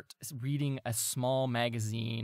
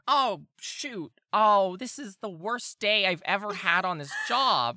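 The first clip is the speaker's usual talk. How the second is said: higher, put-upon guard moaning about his bad day; whiny guard; 6 semitones higher, 4 dB louder than usual. GM voicing Bert the guard after the bin tips, whining. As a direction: groan it like a bored guard whose day just got worse. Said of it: "You hear Bert kinda go".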